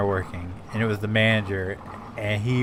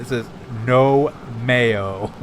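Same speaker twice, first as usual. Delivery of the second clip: insistent; much slower than usual. Retold or imitated. Cashier insisting slowly.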